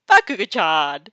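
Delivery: loud call of a name. Acted. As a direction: call him out loudly. Character calls out to Bakugo.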